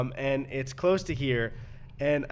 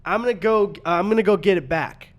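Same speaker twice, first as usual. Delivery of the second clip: imitating delivery guy; 5 semitones higher, 7 dB louder than usual. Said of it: "And he goes".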